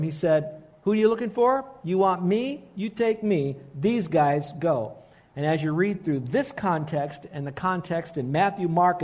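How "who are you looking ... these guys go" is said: take-charge retelling of an order; commanding. Retold or imitated. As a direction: give orders instead of asking. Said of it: "he commanded them. He didn't ask them".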